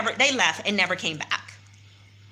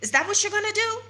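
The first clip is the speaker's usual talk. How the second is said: higher, indignant challenge; mock outrage, pitched up; retold challenge; 7 semitones higher than usual. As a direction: ask it back, incredulous. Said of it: "And so I said".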